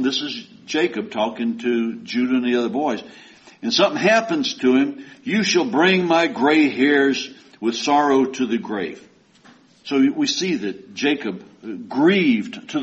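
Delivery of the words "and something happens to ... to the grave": preacher reading scripture aloud. Acted. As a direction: proclaim the verse to the congregation.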